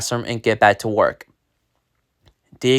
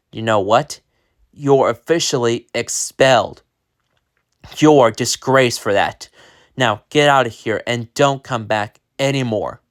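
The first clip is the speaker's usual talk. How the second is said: stern principal. Acted. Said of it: "he said sternly".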